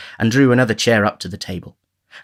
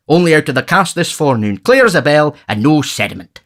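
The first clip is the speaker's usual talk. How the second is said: pompous beadle praising the wine, higher; Bumble boasting; 3 semitones higher, 3 dB louder than usual. Acted. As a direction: show off the port proudly. Bumble shows port wine.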